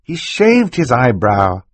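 acted high-voiced girl, insistent; urgent girl's accusation. A narrator's reading. Violet insists on her accusation.

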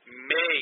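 MAY given deliberate emphasis; stress on MAY. Real, not acted. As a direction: lean on the word "may". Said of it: "I emphasize the word may".

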